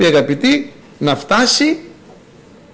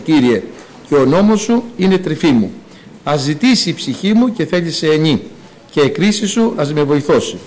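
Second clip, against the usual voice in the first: psalm reading. Acted. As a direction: read the psalm like a prayer. Reads psalm verses. (ψαλμική ανάγνωση)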